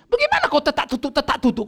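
high, astonished question; a boy marvelling at a friend's speed; amazed kid. Retold or imitated. Schoolboy amazed at friend's fast abacus, high astonished question.

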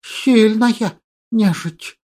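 slow, quiet drawn-out hiss; hissing creature voice. Acted. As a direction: hiss the words out slowly. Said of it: "Перевёл я его шипение".

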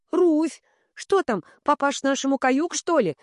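put-on a high, light young man's call. A narrator's reading. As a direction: pitch it up, calling from the roof. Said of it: "Судя по высокому голосу". (высокий голос с крыши)

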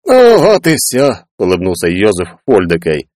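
a cosy shopkeeper inviting to dinner; Foldekai voiced.

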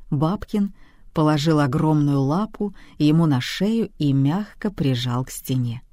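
usual speaking voice

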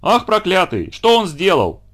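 high alarmed cry, as if at a fire; крик на весь дом. Acted. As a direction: cry out as if the house is burning. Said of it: "кричала на весь дом, точно на пожаре". (бабушка в панике кричит на весь дом)

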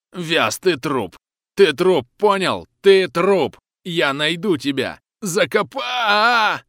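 very high, very loud threat, cut off; furious threat. Acted. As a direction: rasp the death threat in fury. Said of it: "яростно хрипит".

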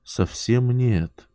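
slow, absent-minded echo; mechanical repeat. Acted. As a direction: say it automatically, mind elsewhere. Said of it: "машинально повторила Варя".

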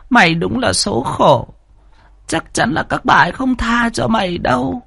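put-on an old servant woman lamenting to the maid; pitying old nurse. A narrator's reading. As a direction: grieve over the girl's hard fate.

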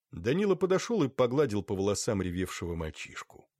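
usual speaking voice

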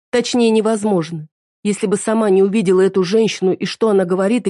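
wife coldly reproaching her husband; hurt wife. Acted. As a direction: lay the blame on him steadily.

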